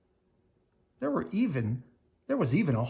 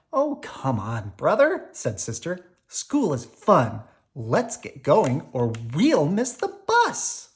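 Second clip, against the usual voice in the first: cheerful urging; 3 semitones higher, 4 dB louder than usual. Acted. Sister cheers Brother on.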